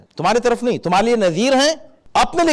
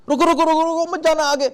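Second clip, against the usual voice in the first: urgent call; 10 semitones higher than usual. Pretend. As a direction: call out to stop someone before the pit. Warning someone near a pit. (بلند آواز میں فوری پکار)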